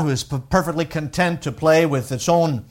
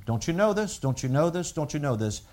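soft reminder; 2 semitones lower, 8 dB quieter than usual. Retold or imitated. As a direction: say it gently, almost under the breath. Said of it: "he reminds them".

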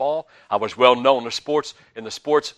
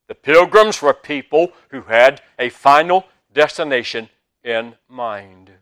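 louder, hammering "pilgrims" on the second pass; emphatic repeat; 9 dB louder than usual. Shown as a demonstration. Preacher repeating the line to his flock, louder. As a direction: drive the point home, louder.

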